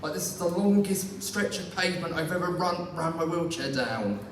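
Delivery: rising impatience, mock desperate; a touch of comic despair; exasperated inner thoughts. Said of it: "you think to yourself".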